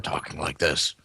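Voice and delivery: low-key imitation of a superhero's bat voice. Fan mimicking the hero's League-influenced talk, bat voice. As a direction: lightly put on a bat voice toward the end. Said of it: "straight bat voice this time".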